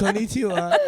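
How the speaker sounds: lightly put-on Japanese accent; a hint of Japanese accent; mock Japanese accent. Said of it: "it's funny that you said Haribo".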